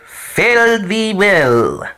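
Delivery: breathy high whisper, very slow; whispered farewell. Acted. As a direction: whisper it like a ghostly goodbye.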